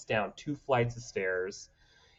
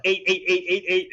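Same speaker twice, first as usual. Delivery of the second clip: higher, louder rapid calls; gleeful damage calls; 9 semitones higher, 7 dB louder than usual. Retold or imitated. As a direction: rattle off hits with glee. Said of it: "And I'm just like".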